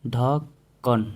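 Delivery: ढक्कन stretched out very slowly; teacher slowly modelling ढक्कन; very slow demo word. Shown as a demonstration. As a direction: draw out ढक्कन syllable by syllable. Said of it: "ढक्कन में यह बिंदु का प्रयोग नहीं करेंगे".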